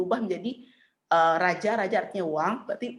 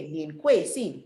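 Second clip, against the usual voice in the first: measured, separated syllables; slow model reading; 3 semitones lower, slower than usual. Shown as a demonstration. Teacher repeating the Mandarin question for students, slow model reading. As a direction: say each syllable slowly for learners.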